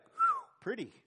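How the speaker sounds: put-on high, wondering little-kid voice; airy high whew, then a toddler's "pretty"; distracted toddler. Toddler holding dad's finger spots something pretty, high distracted child voice.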